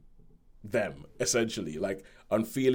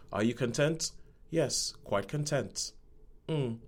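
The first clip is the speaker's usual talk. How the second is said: deadpan; 5 dB quieter, slower than usual. Retold or imitated. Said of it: "They are very deadpan".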